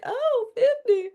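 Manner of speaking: high, slow, dismayed "Oh, fifty"; mock dismay. Woman voicing her dread of fifty, mock dismay. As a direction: act out dreading the age.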